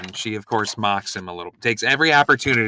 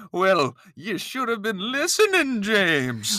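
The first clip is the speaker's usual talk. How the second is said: high, lightly Southern scolding; a cowboy Southern accent, chiding James; 8 semitones higher, slower than usual. Pretend. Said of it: "I'm gonna do it with a Southern accent".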